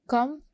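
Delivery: "com" set apart as one syllable. Shown as a demonstration. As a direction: say "com" alone, as a piece of computer. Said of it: "is one syllable". ("com" को अलग syllable बोलें)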